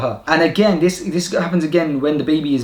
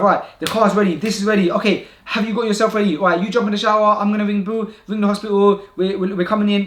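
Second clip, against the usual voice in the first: higher-pitched rapid checklist in overdrive; mind in overdrive; 5 semitones higher than usual. Retold or imitated. Husband to wife as she goes into labour, in overdrive. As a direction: rattle off jobs, retelling a busy head. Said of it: "my mind went into overdrive".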